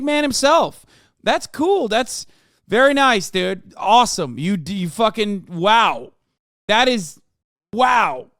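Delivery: sarcastic awe. Pretend. Sarcastic praise of Nazi memorabilia.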